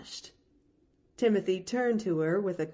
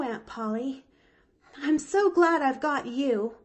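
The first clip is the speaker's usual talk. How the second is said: put-on high, eager little girl voice, a catch in the breath; a small orphan girl bravely glad; young girl Pollyanna; 7 semitones higher than usual. Orphan girl to Nancy, high and earnest.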